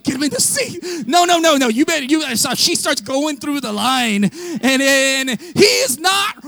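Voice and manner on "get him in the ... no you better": loud, higher retold command; husband shouting back at his wife; shouted order. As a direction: bark it back at her. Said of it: "I'm like".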